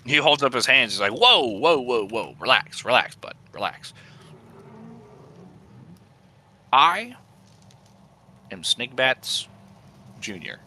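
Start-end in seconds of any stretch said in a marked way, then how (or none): 1.1-10.6 nervous goblin plotting against his boss. Acted. DM voicing goblin Snigbats Junior.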